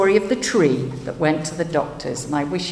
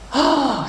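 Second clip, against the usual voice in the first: sighing tree; 8 semitones higher, 3 dB louder than usual. A narrator's reading. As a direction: let out a gentle sigh as the tree. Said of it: "sighed the tree".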